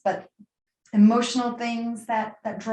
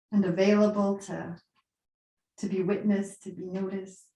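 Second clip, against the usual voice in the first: guided meditation. Acted. Guides listeners into yoga nidra.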